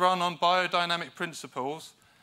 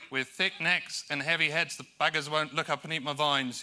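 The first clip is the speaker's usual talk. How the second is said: put-on New Zealand accent quote; New Zealand accent, lightly done; Kiwi accent. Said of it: "Sorry about the Kiwi accent".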